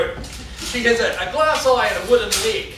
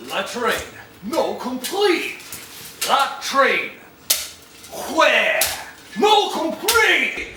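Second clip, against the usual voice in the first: slow, increasingly loud and high; rising exasperation; 5 semitones higher, 3 dB louder, much slower than usual. Retold or imitated. To the French farm girl, growing exasperated and loud. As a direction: spell it out louder each time to a foreigner. Exasperated mimed exchange with Madame.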